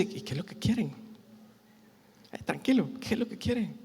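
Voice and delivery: very soft, gentle question; hushed, reassuring voice; calm Jesus. Acted. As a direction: soothe and ask quietly. Voices Jesus calmly answering the men.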